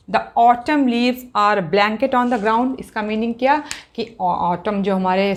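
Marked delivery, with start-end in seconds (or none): 0.1-2.8 steady classroom reread; slow reading aloud. Shown as a demonstration. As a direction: read the whole line once more. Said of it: "अब देखिए".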